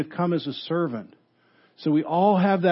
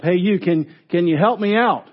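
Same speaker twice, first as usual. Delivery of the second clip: calling up from a hole, a little louder; mild retold shout; 2 semitones higher, 4 dB louder than usual. Man in the hole calls up to the doctor, mild shout. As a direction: call up to the passer-by, half-voiced. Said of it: "the guy shouts up".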